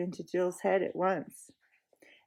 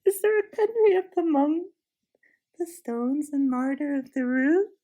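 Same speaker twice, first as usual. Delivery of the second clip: mock surprise; 6 semitones higher, 4 dB louder than usual. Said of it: "with a kind, soft, musical laugh".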